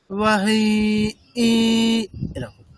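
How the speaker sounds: বাহাই with a tiny break before the last ই; বাহাই said with a slight stop and a jolt on the last vowel; pause before final i. Shown as a demonstration. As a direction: say বাহাই, then a small push on ই. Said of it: "tone change করলাম".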